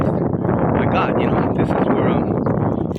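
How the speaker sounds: breathy whisper of a mock realization. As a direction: murmur it like a hushed aside. Retold realization by officials.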